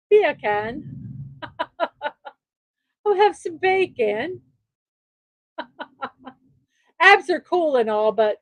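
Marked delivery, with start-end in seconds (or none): 0.1-0.8 "Beer can" with a British accent, no r sound. Shown as a demonstration. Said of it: "Say beer can with a British accent". 3.0-4.4 put-on Jamaican accent. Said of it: "bacon with a Jamaican accent".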